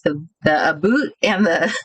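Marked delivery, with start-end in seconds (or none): 0.7-1.1 "boot" with a Canadian oo vowel; imitated Canadian accent. Amused by the standout words, imitated Canadian accent. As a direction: mimic a Canadian saying about as "a boot". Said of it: "those two words are the standout words".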